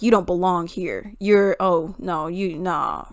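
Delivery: low, muttered mock put-down; dismissive. Classmates judging her as not belonging, dismissive. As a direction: imitate a soft, dismissive brush-off. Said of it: "how you would say it".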